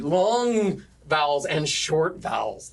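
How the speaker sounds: "long" drawn out, "short" brief; long-short contrast. Shown as a demonstration. Teacher explaining quantity meter, "long" stretched against quick "short". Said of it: "We do it with quantity".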